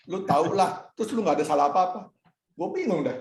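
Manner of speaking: a mock-frantic burst at his wife; exasperated outburst. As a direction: throw up your hands in retold frustration. Retelling confused late-night argument.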